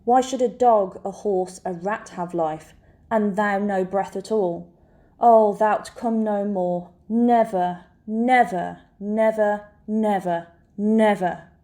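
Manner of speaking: understated grief, recited with weight on each phrase; lightly acted Lear in grief; grief-stricken King Lear. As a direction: mourn in a measured recital, letting each repeated word stand alone. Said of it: "grief-stricken clarity as he looks upon the".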